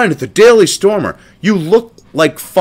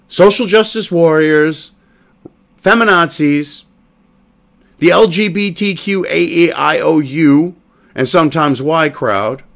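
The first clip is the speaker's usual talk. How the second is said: sarcastic translation. Shown as a demonstration.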